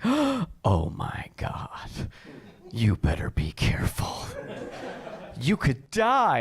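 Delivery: hammed-up gasping mom, stretched out slowly; milk each word like an alarmed mother; panicked mom. Mom hearing how cold Chicago was, hammed-up alarm.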